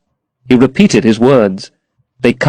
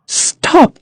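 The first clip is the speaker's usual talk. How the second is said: exclaimed. A narrator's reading. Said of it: "she exclaimed".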